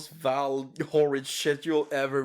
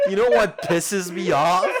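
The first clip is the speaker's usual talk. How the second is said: a louder rerun with a laugh; 4 dB louder than usual. Real, not acted. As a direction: raise it and laugh through it.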